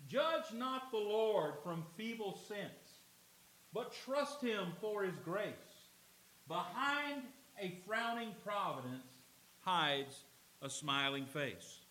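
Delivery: slow, measured reading of a hymn verse; poem recitation. Acted. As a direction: let each line of the poem land slowly. Reads a hymn verse aloud.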